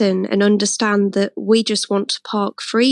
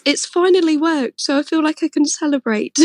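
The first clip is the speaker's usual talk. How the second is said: smiling; 6 semitones higher than usual. Real, not acted. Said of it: "I can hear the smile in your voice".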